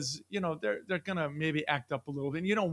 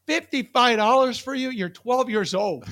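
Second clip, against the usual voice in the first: higher, louder, slowed disbelief at the price; mock outraged dad; 6 semitones higher, 7 dB louder than usual. Dad to daughter, hammed-up outrage at her pricey order. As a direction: play the stunned father at the menu. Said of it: "I'm looking at her".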